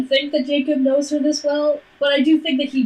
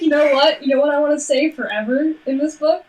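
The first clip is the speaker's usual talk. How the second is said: mock reader quote; 3 semitones higher than usual. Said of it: "They'd be like".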